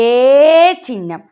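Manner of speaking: ഏ held long, then ചിഹ്നം; slow naming of ഏ ചിഹ്നം; letter demonstration. Shown as a demonstration. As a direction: draw out the vowel ഏ for learners. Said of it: "എന്താണ്?".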